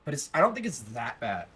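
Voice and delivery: amateur attempt at a British accent. Shown as a demonstration. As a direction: put on a learner's British accent. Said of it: "I'm gonna start doing a British accent".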